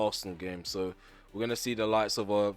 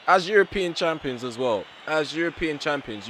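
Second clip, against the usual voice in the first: higher and louder, exasperated; exasperated rant; 6 semitones higher, 5 dB louder than usual. Real, not acted. Manager ranting about his European champions, exasperated. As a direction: scold them for failing their title.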